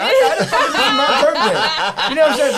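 high, loud, laughing through the words; real laughter. Real, not acted. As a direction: crack up as you say it. Laughing over paying for gift.

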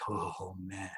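a soft, deflated "oh man" to himself; sinking dread. Retold or imitated. Son after mom says the counselor called, hushed dread. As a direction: let the stomach drop out of it. Terrified of mom's news.

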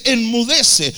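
Jesus speaking to the storm, firm but restrained; milder command. Retold or imitated. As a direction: speak to the storm firmly, not yelling. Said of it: "Le habla a la tempestad".

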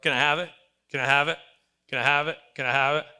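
loud, insistent nagging, identical each time; pestering little kid. Acted. Kid begging a parent over and over, loud pestering. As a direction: wear them down like a begging kid. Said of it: "little kid try to do that with you".

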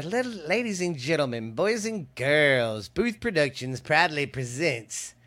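ringmaster. Acted. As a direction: stretch each phrase like a circus host. Restarts ringmaster intro.

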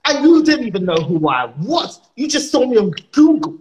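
indignant acted rant, pitch swinging up; furious. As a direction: complain in disbelief at the insult. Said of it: "I'm furious".

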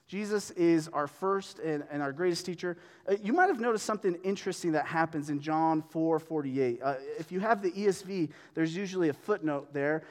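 ordinary delivery

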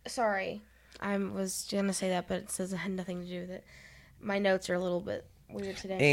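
stuffed-up nose, can't breathe; talking through blocked sinuses. Real, not acted. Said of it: "her sinuses are messing with her".

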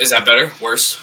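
echoey, boxy bad mic; talking inside a metal tank; tin can sound. Real, not acted. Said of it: "you're just in a bigger tin can".

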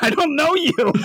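put-on high, thin girlish voice; a hammed-up little girl backing away; wary girl. Sister wakes to stranger, high mock wariness.

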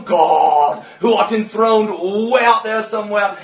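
booming, formal churchgoer praying; mock distant prayer. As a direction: intone it to a faraway God. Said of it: "I'm used to people going".

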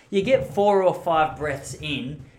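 explaining the breathing method to viewers, slow and loud. Shown as a demonstration. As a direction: stretch it out slowly and loudly. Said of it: "to give you an example".

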